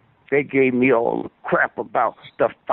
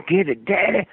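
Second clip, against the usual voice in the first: higher-pitched mimicked cry of passion; put-on excited yelp; mock yell; 6 semitones higher than usual. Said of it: "she had to yell".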